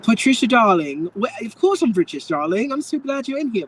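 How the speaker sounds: put-on high, swooping socialite voice; hammed-up British darling act; gushing darling greeting. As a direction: greet a dear friend grandly, pitch soaring.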